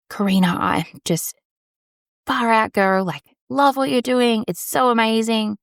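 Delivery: a local lady gushing over the podcast, high and bubbly; gushing fan. Retold or imitated. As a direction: gush like a starstruck fan. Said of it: "She goes".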